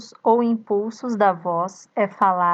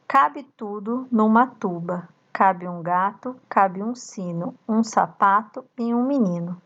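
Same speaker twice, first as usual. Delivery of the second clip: recited rhyme. Shown as a demonstration. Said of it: "Leia, pratique e memorize".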